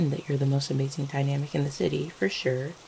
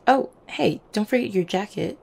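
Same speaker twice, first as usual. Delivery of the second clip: higher, louder sudden reminder; calling out; 4 semitones higher, 4 dB louder than usual. Acted. Reminding a partner about the jacket, calling out. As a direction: call it over as it occurs to you.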